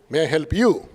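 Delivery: overpolite clerk. Retold or imitated. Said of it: "excessive politeness".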